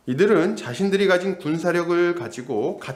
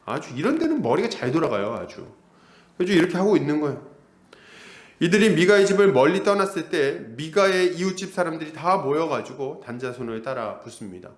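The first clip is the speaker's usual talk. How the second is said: ordinary talk, nothing marked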